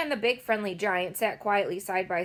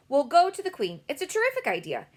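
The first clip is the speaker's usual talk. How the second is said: excited; 7 semitones higher, 6 dB louder than usual. A narrator's reading. Excited Sophie.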